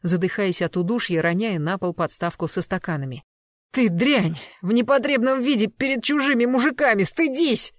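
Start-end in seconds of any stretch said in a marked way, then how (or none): 3.7-7.7 loud reproach climbing high; angry scolding. Acted. Boyfriend to girlfriend in a sheet before strangers, angry scolding. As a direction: shame her in outraged tones.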